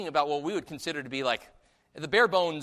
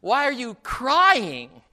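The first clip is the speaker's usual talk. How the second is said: "Why" and "crying" punched high and loud; slow, loud emphasis on "Why are you crying"; emphatic questioning; 5 semitones higher, 7 dB louder, much slower than usual. Shown as a demonstration. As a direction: stretch out "crying" with heavy stress. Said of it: "that's where the emphasis is".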